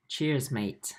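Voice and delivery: put-on light, playful stab at an Australian accent; hint of put-on Australian accent. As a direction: toss it off in a mock Australian accent. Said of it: "that's my Australian accent".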